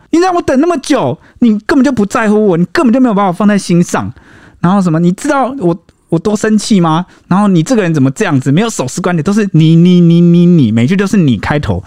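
high-pitched, accusing complaint, fast in places; angry girlfriend. Retold or imitated. Girlfriend scolding her late boyfriend, high accusing rant. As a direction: pile on the blame like a hurt girlfriend. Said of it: "女生很生气说".

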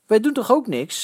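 high indignant protest; shouting. A narrator's reading. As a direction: yell your innocence. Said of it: "schreeuwde Kees".

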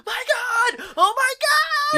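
high, loud mock scream of terror; panicked scream. Shown as a demonstration. Host acting out how passengers should react, panicked screaming. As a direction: scream it like a passenger about to crash. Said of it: "they're in the car like".

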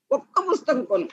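acted child's plea in a high voice; tearful pleading. A narrator's reading. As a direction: beg like a boy close to tears. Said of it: "ఏడవకు నాయనా".

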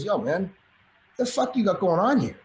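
imitating a raspy stranger. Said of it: "in a raspy voice".

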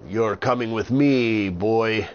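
loud, slow pirate growl; gruff pirate. Acted. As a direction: threaten the boy like a pirate. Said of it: "told him".

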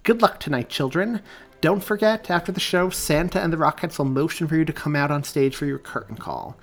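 loud, authoritative stage briefing; addressing a crowd. A narrator's reading. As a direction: project to a whole group of children. Director addresses a group of students.

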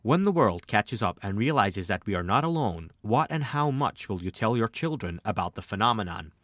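put-on American accent, reading a listener's question. Podcaster reads a question for American listeners in an American accent. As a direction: read it like an American host would. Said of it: "I'll read this in my American accent".

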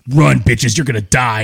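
lightly mocked sergeant's threat, starting loud; imitating drill instructor. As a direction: bark the order as a mock instructor. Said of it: "He is laughing but trying not to".

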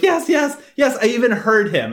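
high-pitched frantic insistence; Palmer voice. Retold or imitated. Palmer swears he saw Sephiroth, high mock squeal. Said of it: "And Palmer's like".

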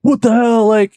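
high-pitched mock shock; incredulous retold outburst; shocked disbelief. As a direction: imitate a stunned friend, voice jumping up. Friends' shocked reactions to prank, retold.

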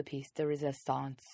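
badly faked French accent; a low, hammy attempt at French accent; terrible French accent. Host introducing part three, in terrible French accent. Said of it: "That's a terrible French accent".

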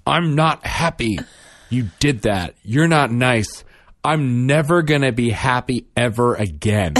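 put-on slow, pouting child's complaint; sulky kid. Mother imitating her son sulking in the back seat, slow and pouty. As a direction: drag it out like a grumpy little boy. Son sulks, hates mom.

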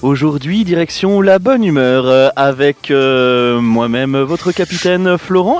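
cabin announcement, captain's voice; pilot over the radio. Acted. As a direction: welcome passengers aboard like a pilot. Host plays airline captain.

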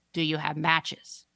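put-on slow monotone creepy little girl; flat, eerie, slow question; creepy monotone child. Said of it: "monotone and deeply".

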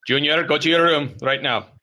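stern father. Acted. Acted father orders child away.

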